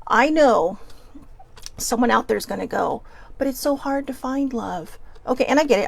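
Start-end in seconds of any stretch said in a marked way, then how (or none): 3.4-5.0 mocking whine. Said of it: "I know that sounded like I was mocking it".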